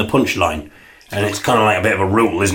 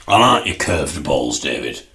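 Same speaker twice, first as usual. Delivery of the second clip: Ray's lower voice; 5 semitones lower, slower than usual. Acted. Ray's voice teasing David.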